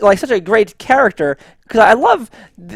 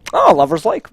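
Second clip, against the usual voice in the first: dreamy; 10 semitones higher than usual. Retold or imitated. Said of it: "is he like".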